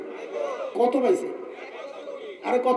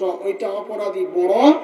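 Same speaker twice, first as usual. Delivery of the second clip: slow emphasis; slower than usual. Real, not acted.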